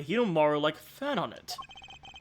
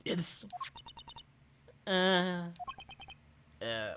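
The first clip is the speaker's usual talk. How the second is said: put-on high, coy old woman cooing; fawning old lady; 4 semitones higher than usual. Old woman to Edgy Poo, high and doting. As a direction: coo sweetly at her crush.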